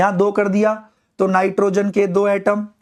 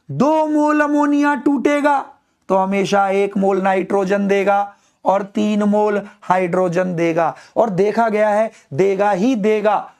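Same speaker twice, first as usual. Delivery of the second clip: loud read-aloud. Shown as a demonstration. Teacher asks student to read loudly, slow loud recitation. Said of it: "चिल्ला के पढ़ मेरे बेटा".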